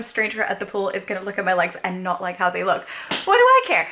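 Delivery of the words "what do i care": high, loud carefree defiance; defiant. Real, not acted. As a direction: toss it off, who cares. Defiant rhetorical question.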